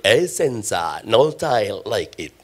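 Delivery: deep, slow announcer voice; ad voiceover. Pretend. The preacher shows his crowd the tile ad voiceover, deep and slow. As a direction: croon the slogan like a TV ad. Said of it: "jangan cuma sungkan sama saya".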